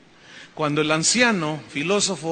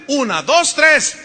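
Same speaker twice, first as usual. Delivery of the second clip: loud countdown, rising into a shout; men's shout; 5 semitones higher, 6 dB louder, slower than usual. Shown as a demonstration. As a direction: count it off louder and louder. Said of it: "Los varones a las tres gritan fuerte". (cuenta en voz alta que sube hasta el grito)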